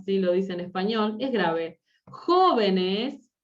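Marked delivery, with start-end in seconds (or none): 2.1-3.3 "Jóvenes" drawn out, first syllable punched; stress on first syllable. Shown as a demonstration. Teacher showing an esdrújula word, first syllable stressed. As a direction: hit JÓ in "Jóvenes", then let the rest follow. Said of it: "jóvenes es esdrújula".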